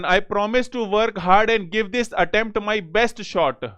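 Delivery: reads the sentence out very slowly; unhurried reading, word by word; slow dictation reading. Shown as a demonstration. Teacher reading an exam question aloud, very slow.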